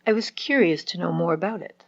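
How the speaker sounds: "curious" picked out from the sentence; stress on CURIOUS. Shown as a demonstration. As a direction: lean on the word "curious". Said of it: "The adjective".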